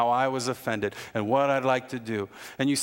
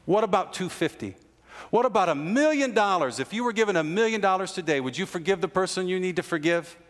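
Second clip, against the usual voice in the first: building intensity; 6 semitones higher than usual. Real, not acted. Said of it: "escalating rhetorical offers".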